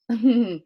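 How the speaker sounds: short chuckle; brief wordless little laugh. Real, not acted. Teacher amused by her missing pencil example, short chuckle.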